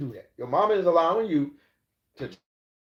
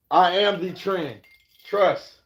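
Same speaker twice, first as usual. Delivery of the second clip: cocky brag; 3 semitones higher, 5 dB louder, much slower than usual. Acted. Bragging about setting the trend.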